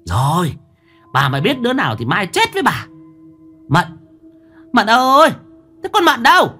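loud, high shout for the maid; calling loudly. A narrator's reading. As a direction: bellow the name across the house. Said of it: "Mụ Mão gọi lớn".

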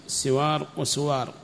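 "سوار" first with kasra as siwar, then "وسوار" with damma as wa-suwar; two vowelings of the sin. Shown as a demonstration. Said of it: "وضبطان للسين".

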